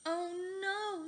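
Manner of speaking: high, loud scared scream. A narrator's reading. Fluffy facing the steamroller, high loud scream. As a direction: scream in terror. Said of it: "screamed Fluffy".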